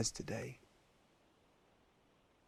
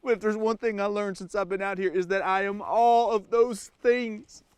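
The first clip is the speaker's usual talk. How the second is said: fake Southern accent. Stranded survival-show host confessing to camera, put-on Southern accent. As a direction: play the rugged Southern survivalist. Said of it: "I don't even have an accent".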